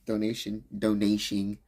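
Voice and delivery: mid-yawn, stretched out; words pulled by a yawn. Real, not acted. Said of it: "I fucking got myself yawning".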